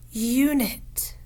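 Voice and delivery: "Unit" whispered, no voice; whispered word. Shown as a demonstration. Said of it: "The first word is".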